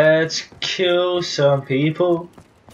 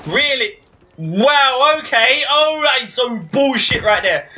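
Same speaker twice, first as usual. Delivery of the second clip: high incredulous ranting; sarcastic rage, pitch way up; raging gamer; 8 semitones higher, slower than usual. Real, not acted. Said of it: "I shouldn't be raging as much".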